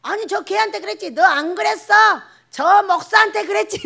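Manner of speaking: high, loud back-and-forth accusation; comic heated argument; acted squabble.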